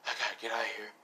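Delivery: low, soft murmur to himself; urgent muttering. Acted. Son realising he must flee, low murmur. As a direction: say it under your voice, still voiced.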